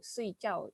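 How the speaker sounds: soy chow in a quick falling tone; fourth tone. Shown as a demonstration. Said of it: "kalau nada empat itu artinya mau tidur".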